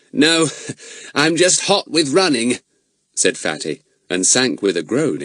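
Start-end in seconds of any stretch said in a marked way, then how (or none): 0.1-2.6 laughing. A narrator's reading. Laugh heard on line.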